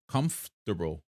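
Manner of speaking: "Comfortable" drawn out as KUMF-tuh-bul; trying the word. Shown as a demonstration. Streamer tries the word for chat, sounding it out. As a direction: test "Comfortable" a second time, dropping the R. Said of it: "can you pronounce comfortable".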